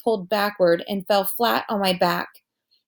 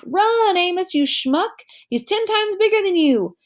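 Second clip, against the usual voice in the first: retold yell; 10 semitones higher than usual. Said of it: "I was like".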